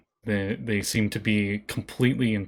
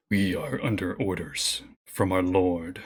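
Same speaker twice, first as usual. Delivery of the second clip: lightly voiced wolf, slow and a bit low; a hint of a menacing wolf leader; snarling alpha wolf; 3 semitones lower, slower than usual. The alpha wolf warning the player, slow, lightly menacing. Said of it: "looks at you and snarls, and he says".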